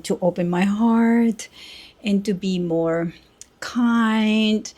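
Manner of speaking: slow, stretched, lightly mocking emphasis; self-mocking. Real, not acted. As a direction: gently send up your own earnest words. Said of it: "I'm making fun of me".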